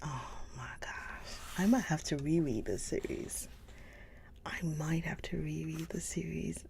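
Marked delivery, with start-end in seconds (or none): 4.4-6.6 whispered. Real, not acted. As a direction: repeat it in a soft whisper. Repeats it softly.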